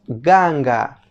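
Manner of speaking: GANGA with hard voiced g in both syllables; K sounded as G. Shown as a demonstration. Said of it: "la K suena como G".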